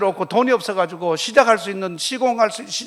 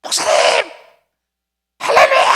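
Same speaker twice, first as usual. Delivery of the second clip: excited caller; 8 dB louder than usual. Retold or imitated. Church member calling excitedly on phone.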